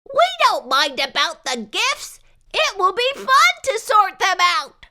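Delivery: put-on high, rising child voice; eager children. A narrator's reading. Children asking the nurse to let him stay. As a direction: coax the nurse sweetly.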